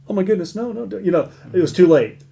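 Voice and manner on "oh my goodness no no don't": high-pitched mock dismay; retold panic. Counselor as the phone is handed over, retold panic. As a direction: replay your alarmed reaction.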